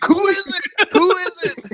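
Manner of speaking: high, loud mock demand; angry shopkeeper. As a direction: bark the question like a pissed-off owner. Angry shop owner on phone.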